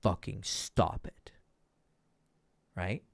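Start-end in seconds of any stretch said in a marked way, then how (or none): 0.0-1.3 slow firm "fucking stop it"; primal stop it. Shown as a demonstration. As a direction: lay down the law slowly. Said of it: "flavor of primal".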